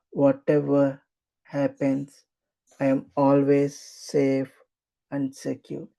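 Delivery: slow, deliberate affirmation with pauses. Acted. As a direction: spell each phrase out slowly. Repeated affirmation, slowed.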